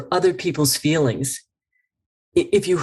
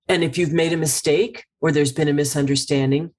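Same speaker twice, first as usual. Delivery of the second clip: ordinary delivery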